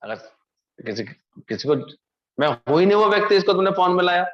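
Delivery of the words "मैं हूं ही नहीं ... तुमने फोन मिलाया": emphatic. Real, not acted. Preacher stressing a point.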